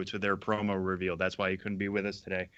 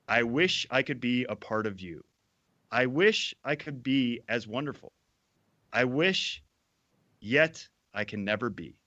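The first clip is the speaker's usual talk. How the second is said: fervent poem reading. Acted. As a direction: declaim it like a grand ode. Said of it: "the appropriate level of fervor".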